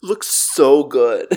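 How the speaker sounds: flat TikTok text-to-speech voice; monotone robot woman. Pretend. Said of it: "TikTok robot woman voice".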